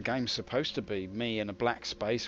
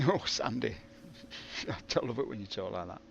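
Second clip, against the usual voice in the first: lightly voiced besotted husband; a hint of smitten partner; Chris; 3 semitones lower, 4 dB quieter than usual. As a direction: chuckle and drop to a low, soft mock-amorous murmur. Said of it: "And she says".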